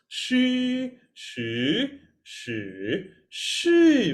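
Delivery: she in first, second, third and fourth tone. Shown as a demonstration. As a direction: run the Mandarin tones on she. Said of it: "Play four tones".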